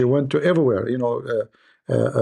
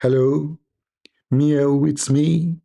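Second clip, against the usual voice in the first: louder, drawn-out pleading cat impression; hammed-up cat calling out; 3 dB louder than usual. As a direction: wheedle like a meowing cat. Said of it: "Didn't she call you again and again".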